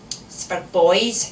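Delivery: slow, firm statement; firm child. A narrator's reading. Small daughter refusing the cap from mum, firm. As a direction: state it firmly and slowly. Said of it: "she said firmly".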